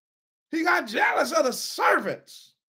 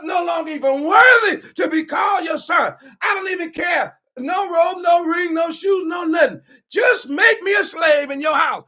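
rehearsed plea. Acted. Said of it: "let me get my words straight".

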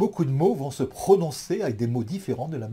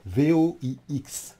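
spelled out; slower than usual. Shown as a demonstration. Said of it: "des voix".

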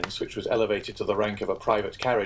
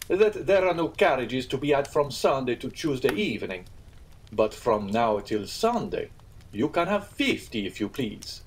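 innkeeper voice; 3 semitones higher than usual. Acted. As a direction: draw it out with wounded dignity. Pastrini continues.

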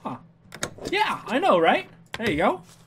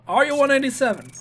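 higher, faster incredulous repeat; 7 semitones higher, faster than usual. Acted.

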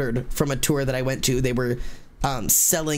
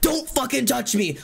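high-pitched, frantic retort; wild-eyed warning; 10 semitones higher than usual. Retold or imitated. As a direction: re-enact an on-edge outburst. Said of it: "wild eyes style thing".

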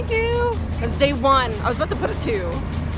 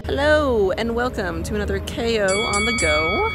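upbeat vlog intro; 3 semitones higher, 3 dB louder than usual. Real, not acted.

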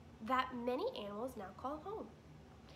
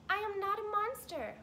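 much higher, louder robot correction; robot Roz protesting; 10 semitones higher, 7 dB louder than usual. Acted. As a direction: correct them firmly as the robot.

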